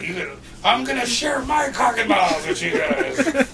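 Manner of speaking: hammed-up impression of a rowdy guy calling out; mock announcement. Guy announcing to everyone, mock shout.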